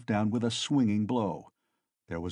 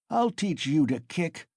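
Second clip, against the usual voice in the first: ferocious shout; 6 semitones higher than usual. A narrator's reading. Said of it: "Mikolka shouted ferociously".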